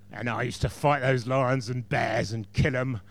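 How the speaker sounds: a hint of a gruff warrior king; gruff monotone voice. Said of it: "with a sort of monotone, gruff voice".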